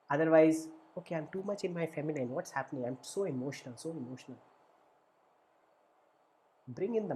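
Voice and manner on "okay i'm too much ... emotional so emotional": softer, faster fretting to oneself; overwhelmed inner voice. Retold or imitated. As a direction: fret quietly, as if overwhelmed by feelings. Voicing an overwhelmed inner self.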